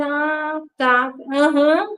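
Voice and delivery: slow, drawn-out retold acknowledgment; concordância cética. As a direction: drag out a noncommittal agreement. Finge aceitar a repreensão dos irmãos. (concordando devagar, sem convicção)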